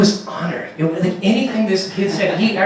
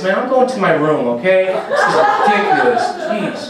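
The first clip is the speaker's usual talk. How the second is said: put-on higher, louder whiny teen; sulky teen son; 3 semitones higher, 3 dB louder than usual. Grown son sulking at his mom about clothes, whiny teen voice. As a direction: storm off in a huff.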